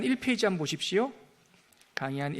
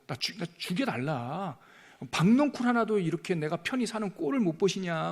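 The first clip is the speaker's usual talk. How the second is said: mock angry plea. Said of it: "죽여달라고 그래요".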